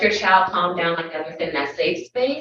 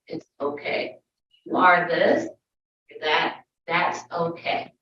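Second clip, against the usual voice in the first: soothing; 4 semitones lower, 4 dB quieter than usual. Retold or imitated. Comforting child.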